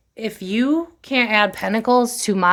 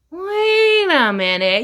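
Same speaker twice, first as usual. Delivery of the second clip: a drawn-out, rising Wait a minute, higher and slow; 8 semitones higher, much slower than usual. Retold or imitated. Reader voicing her viewers' dawning realisation, slow and rising. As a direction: stretch the realisation out slowly. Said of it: "I think a lot of you are going".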